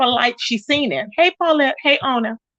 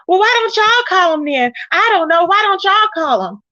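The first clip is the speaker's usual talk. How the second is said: mock yelling Nosy; 4 semitones higher than usual. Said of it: "So she was yelling".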